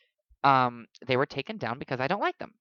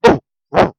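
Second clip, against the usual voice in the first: loud, higher "ooh" bursts; imitated singer's growl; 4 semitones higher, 13 dB louder than usual. Amateur singer copying a star's growl, loud imitation. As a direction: belt out two growly oohs. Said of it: "like, the growl she does".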